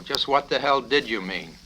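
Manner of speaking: barking the question at the cadet; angry colonel. Acted. Colonel grilling the cadet, angry demand. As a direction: demand an answer, hard and loud.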